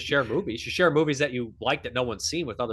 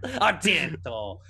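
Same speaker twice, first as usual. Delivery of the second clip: slow, seething then rising; muttered rival's name; 5 semitones higher, much slower than usual. Retold or imitated. Fulci brooding over his rival, slow then rising. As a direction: drag the name out with spite. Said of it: "He's like".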